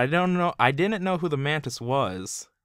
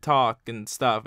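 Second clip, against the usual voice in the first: put-on childish Aquaman voice. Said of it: "he talks like he's, like, a child".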